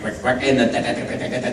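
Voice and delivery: imitated arcade game sounds; Space Invaders noises. Recalling old video games, mimicked invader noises. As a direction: rattle off low electronic marching blips. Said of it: "and Space Invaders".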